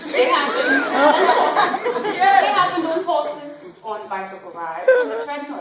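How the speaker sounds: loud, high, drawn-out exclamation; acted rapture, slow and loud; ecstatic recollection. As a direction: stretch it out high and loud, carried away. Acting out accidental orgasms in monologue.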